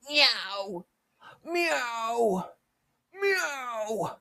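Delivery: high, loud cat meow; mock cat meows. Furry meowing at coworker.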